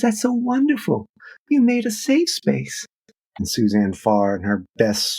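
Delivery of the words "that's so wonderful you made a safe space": put-on young activist gushing. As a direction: gush it like a starry-eyed young activist. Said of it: "She says".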